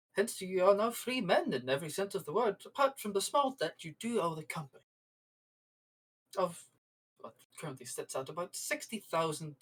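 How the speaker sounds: lightly voiced company manager, politely evasive; Horatio Borax. Manager tells crew about their bail debt, lightly played official politeness. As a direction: explain the terms in measured, formal phrases with pauses.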